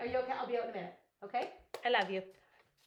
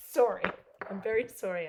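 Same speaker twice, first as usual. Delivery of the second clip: laughing apology; 8 dB louder than usual. Real, not acted. Embarrassed after squealing.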